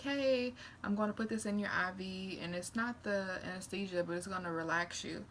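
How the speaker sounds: breezy reassuring nurse. Retold or imitated. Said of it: "The anesthesiologist was like".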